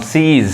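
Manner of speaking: सीज with a drawn-out "ee"; सीज said "seeez", falling at the end; long "ee" sound. Shown as a demonstration. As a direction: hold the long vowel in सीज. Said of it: "long sound".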